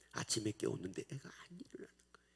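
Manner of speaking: hushed. Acted. Hushed storytelling.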